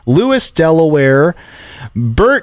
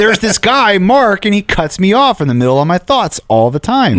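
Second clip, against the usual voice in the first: higher, lightly mocking pastor voice; pastor impression; 8 semitones higher than usual. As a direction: play the co-host pastor teasingly. Mark still voicing Bert.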